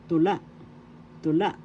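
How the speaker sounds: LA stressed in "tula"; stress on second syllable. Shown as a demonstration. Teacher repeating the word for learners, LA stressed in "tula". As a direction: say each "tula" with the accent on LA. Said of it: "accent is in second syllable la".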